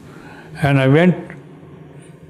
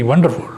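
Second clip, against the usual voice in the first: delighted laugh; 11 semitones higher, 4 dB quieter, faster than usual. Retold or imitated. Stranger laughs, praising him.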